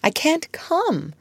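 high, slow, regretful refusal; mild apology in a high voice; apologetic. A narrator's reading. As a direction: let her down apologetically, drawn out. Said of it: "she said apologetically".

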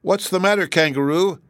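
high-pitched concerned question; ready sympathy. A narrator's reading. Dorothy calls to the weeping kangaroo, sympathetic. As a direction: cry out in sympathy, voice lifted. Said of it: "cried out with ready sympathy".

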